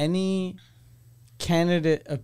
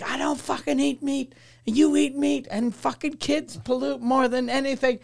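heated retort; 8 semitones higher than usual. Retold or imitated. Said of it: "I was like".

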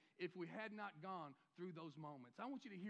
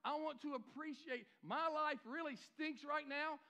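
model prayer. Shown as a demonstration. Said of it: "Look at that opportunity in life and say".

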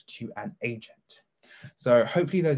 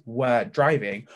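"were driving" drawn out slowly, each word marked; stressed slowly; much slower than usual. Shown as a demonstration. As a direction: linger on "were driving" so it sinks in. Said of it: "Notice in the active voice".

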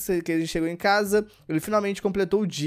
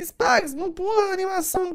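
much higher whiny voice, imitating a viewer; mock viewer complaint; 13 semitones higher than usual. Streamer mimicking a viewer telling him not to skip, high mock whine. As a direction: squeak it like a nagging fan. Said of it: "Mas você vai falar assim".

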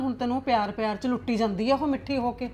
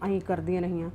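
grumbling aside to herself; 4 semitones lower than usual. Acted. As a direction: sulk and plot under her breath. Mother-in-law grumbles alone, scheming. (ਨੂੰਹਾਂ ਬਾਰੇ ਇਕੱਲੀ ਬੁੜਬੁੜਾਉਂਦੀ ਸੱਸ, ਨੀਵੀਂ ਸੜੀ ਹੋਈ ਅਵਾਜ਼)

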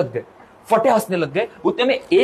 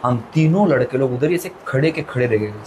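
lower, slow sincere closing; sincere moral; 5 semitones lower than usual. Acted. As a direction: land the moral slowly and earnestly. Emotional moral ending. (धीमा, सच्चे मन से सीख)

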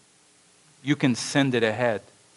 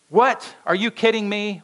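high indignant disbelief; a shocked, offended what; incredulous; 9 semitones higher, 3 dB louder than usual. Acted. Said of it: "All these thoughts are going through his mind".

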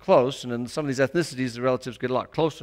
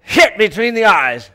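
a hint of an earnest churchgoer; church lady; 8 semitones higher, 12 dB louder than usual. Lady explaining to the pastor what church should feel like, lightly voiced. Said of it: "She said another time".

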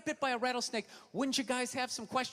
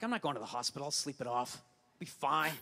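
tough-guy brush-off; 10 semitones lower, 3 dB quieter than usual. Retold or imitated. Stubborn guy refusing hospital.

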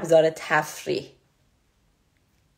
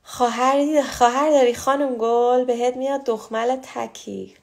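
reading a viewer's question; 5 semitones higher than usual. Retold or imitated. Host reading a viewer's comment aloud, mild teasing mimicry. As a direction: read the comment in a teasing put-on voice. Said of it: "بله خواهر دارم خانم گل".

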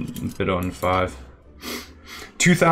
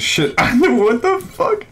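laughing disbelief; much slower than usual. Real, not acted. Another surprise win.

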